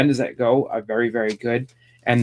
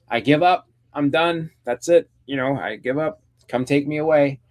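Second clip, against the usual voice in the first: higher-pitched mock giving up; retold surrender, voice pitched up; acted surrender; 4 semitones higher than usual. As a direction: lightly play a villain turning himself in. Voicing Joker's mock surrender to police.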